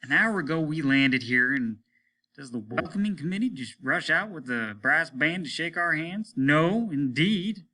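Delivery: sarcastic ranting captain; snorting captain. Acted. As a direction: scoff at the town's neglect. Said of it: "he snorted".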